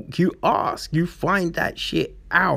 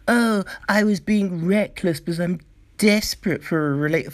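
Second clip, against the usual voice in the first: mocking excuse; 3 semitones higher than usual. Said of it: "you can be like".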